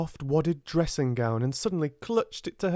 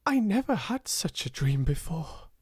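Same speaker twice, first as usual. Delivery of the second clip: panting; 8 semitones higher than usual. A narrator's reading. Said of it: "she panted".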